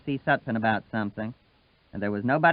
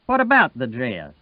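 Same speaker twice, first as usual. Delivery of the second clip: curt, louder demand; short and sharp; 6 dB louder than usual. Acted. Sutphen snapping at Wash about the dress, short and sharp. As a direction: bite it off sharply. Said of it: "Sutphen's voice that was short and sharp".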